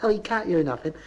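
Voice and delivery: high rising Bristol mother's voice. Retold or imitated. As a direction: lift every line up like a question. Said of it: "She said".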